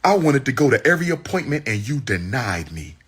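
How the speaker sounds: angry. Real, not acted. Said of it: "Look how angry he is".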